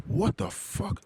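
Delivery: high breathless retold gasp of shock; startled gasp. Friend seeing his own search result, high startled gasp. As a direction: gasp it out high, caught off guard. Friend sees himself online.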